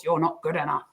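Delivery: a touch of a harsh inner critic; mild critical voice. Shown as a demonstration. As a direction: say it like a nagging critic. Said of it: "how you maybe are used to hearing the voice".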